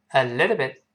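"a little bit" linked, with the t in little lightly voiced; unreleased final t. Shown as a demonstration. Teacher repeats it for learners, linked "a little bit" with unreleased t. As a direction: run "a little bit" together and hold back the final t. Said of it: "失去爆破了".

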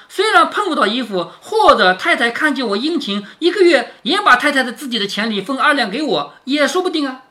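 sneering sarcasm. Acted. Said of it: "晴雯冷笑着说".

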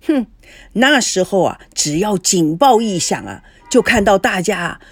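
lightly voiced emphatic storyteller; old Jin reminiscing. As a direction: recount wartime hardship over a drink. Lao Jin goes on reminiscing.

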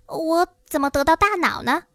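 high, understated lament; tearful wail. Acted. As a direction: wail mildly, without sobbing. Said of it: "稻草人哭喊着说".

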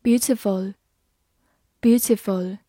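slow, clear review word; slow classroom vocabulary review. Shown as a demonstration. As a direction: say it slowly twice for learners. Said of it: "复习一下今天学过的单词".

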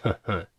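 soft, scornful hmph-hmph laugh; a quiet sneering snort; cold snicker. A narrator's reading. Monk scoffing at the pleading father, cold snicker. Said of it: "和尚冷笑道".

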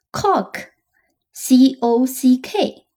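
very slow whispered letters, C O C K; whispered spelling. Shown as a demonstration. Teacher whispering the spelling to students. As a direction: whisper the word Cock, then spell it out slowly.

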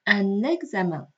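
UN EXAMEN joined by a clear N; liaison with N. Shown as a demonstration. Teacher points out the new sound, N linking UN EXAMEN. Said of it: "我们发现这个呢，在连的过程当中发音了".

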